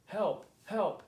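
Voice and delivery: high, loud cries for help; two short, urgent storybook cries; upset calling out. A narrator's reading. Lost Marty begs anyone for rescue, upset calling out. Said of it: "got upset and called out".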